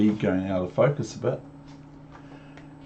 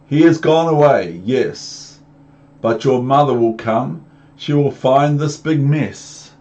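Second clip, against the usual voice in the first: slightly raised warning fish; fussy fish; 4 semitones higher, 4 dB louder than usual. Acted. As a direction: warn about mother coming. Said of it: "said the fish".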